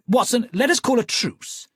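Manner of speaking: lightly voiced cool Holmes; calm detective proposing a truce. Holmes to Watson, coolly offering a truce.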